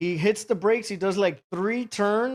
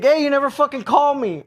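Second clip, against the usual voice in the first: retold call-out; 7 semitones higher, 3 dB louder than usual. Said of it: "And he's like".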